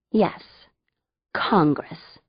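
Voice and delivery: whispered aside. A narrator's reading. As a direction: breathe the word as an aside.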